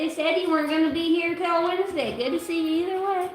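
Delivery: cheery character voice. Pretend. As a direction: greet like an old chummy neighbour. Greets dog in a character voice.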